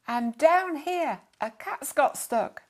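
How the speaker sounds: loud, slow call down the garden; boy shouting up to his dad from the stream; shouting back. Acted. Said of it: "he shouted back".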